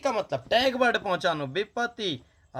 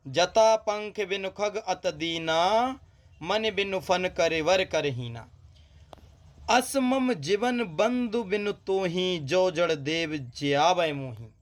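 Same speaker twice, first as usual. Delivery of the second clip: poem recitation; slower than usual. Acted. Teacher reciting the question verse to students, slow recitation. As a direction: recite the chaupai slowly.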